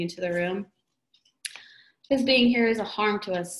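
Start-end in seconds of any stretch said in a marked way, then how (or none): 2.1-3.6 louder, sharp angry retort; old woman snapping angrily at Nathan; angry snap. Acted. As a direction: snap it back bitterly. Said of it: "snapped the old woman angrily".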